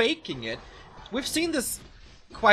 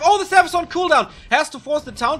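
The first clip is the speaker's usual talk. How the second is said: excited; 10 semitones higher, 10 dB louder than usual. Real, not acted. Tense fight moment.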